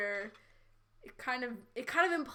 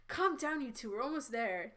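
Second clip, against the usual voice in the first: huffed line; 3 dB quieter than usual. Acted. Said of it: "Diantha huffed".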